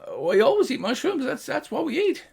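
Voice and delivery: high gnome voice; matter-of-fact gnome. Acted. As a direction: state it plainly. Gnome answers player.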